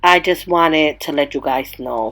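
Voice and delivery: nasal with a head cold; stuffy nose. Real, not acted. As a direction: speak through a blocked-up nose. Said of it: "like, a stuffy nose".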